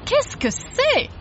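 high, drawn-out French question; baffled question. A narrator's reading. Mister Logan looks under the bus, high baffled question. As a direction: squeak it in puzzled surprise.

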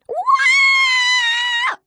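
loud high startled scream. Acted. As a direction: scream in shock at the dragon. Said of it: "screamed Zoe".

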